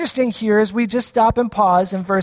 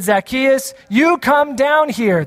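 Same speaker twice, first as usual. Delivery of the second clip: calling out; 3 semitones higher, slower than usual. Shown as a demonstration. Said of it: "usually you shout that".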